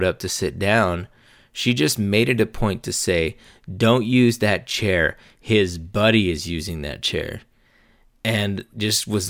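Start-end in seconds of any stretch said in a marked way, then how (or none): 3.8-7.4 mock bitchy. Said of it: "like, a real bitch about it".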